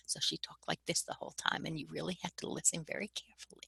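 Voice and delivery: very soft, nearly voiceless murmur; inward talker. Retold or imitated. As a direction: imitate someone barely audible, talking into herself. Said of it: "an inward talker".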